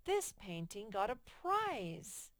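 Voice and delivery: slow and emphatic, with a touch of excitement; a teacher reading the corrected sentence as an exclamation. Shown as a demonstration. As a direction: give it the exclamation mark's punch. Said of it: "they didn't end it with an exclamation mark".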